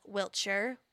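Wiltshire said "WILT-sher", short weak ending; trying a pronunciation. Shown as a demonstration. Host tests how the county is called, Wiltshire as "WILT-sher". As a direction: say Wiltshire with a reduced last syllable. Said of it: "You probably don't pronounce the T".

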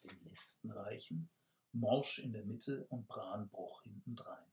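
calm storyteller reading; story narration. A narrator's reading. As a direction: read the tale evenly to the audience. Author reads narration aloud.

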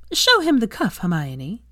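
high, offhand and bored. Acted. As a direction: toss it over the shoulder, bored. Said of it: "said with a bored air".

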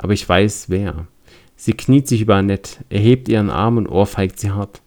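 measured storybook reading voice; story narration. A narrator's reading. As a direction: read it like a spooky tale. Reads scenario story text.

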